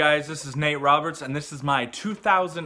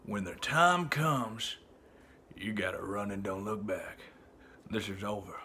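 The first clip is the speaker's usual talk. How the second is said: slow, low, soft Southern drawl; grizzled cowboy urging escape; Western cowboy; 6 semitones lower, 7 dB quieter than usual. Retold or imitated. Cowboy warns a partner to run, low slow drawl. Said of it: "random Western cowboy".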